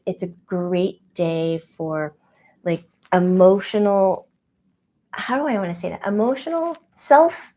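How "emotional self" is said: odd phrasing. Real, not acted. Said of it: "That sounded funny when I said it".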